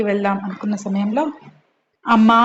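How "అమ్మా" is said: a sudden loud cry of "అమ్మా" in pain. Acted. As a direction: shout "అమ్మా" out loud as she falls. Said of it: "గట్టిగా అరిచింది". (గట్టిగా అరుపు)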